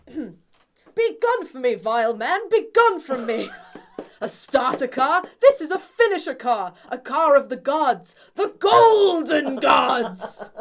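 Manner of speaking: high, loud, grandiose ranting; booming theatrical Dennis rant; Dennis impression. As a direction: bellow it like a vain self-proclaimed god. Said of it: "I can do a reasonably okay Dennis".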